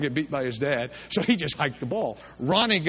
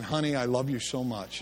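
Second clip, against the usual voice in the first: tender mom; 3 semitones lower, 3 dB quieter than usual. Retold or imitated. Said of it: "she always started off by saying".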